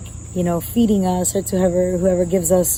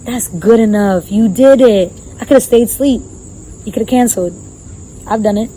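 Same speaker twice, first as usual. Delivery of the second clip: encouraging self. Retold or imitated. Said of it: "And I was like".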